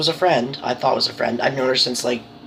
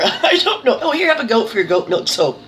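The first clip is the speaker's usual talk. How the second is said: laughing; 5 semitones higher than usual. Real, not acted. Joking about goat gift.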